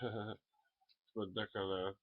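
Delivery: slow, drawn-out it's ridiculous with a laugh. Shown as a demonstration. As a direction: stretch it out slowly. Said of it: "Does that sound more like".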